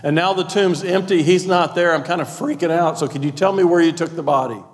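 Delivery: pleading, a little panicked; Mary asking the gardener, lightly voiced and anxious; frantic Mary. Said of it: "What she's saying is".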